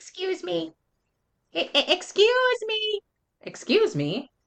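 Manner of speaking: put-on teeny, piping, very high, very tiny voice. Narrator reads an unknown speaker interrupting the cheering crowd at the game: very tiny voice. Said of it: "everyone heard a very tiny voice".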